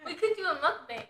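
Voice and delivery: talking with swollen cheeks from braces. Real, not acted. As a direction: braces making the words sound off. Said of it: "Why are you talking like that".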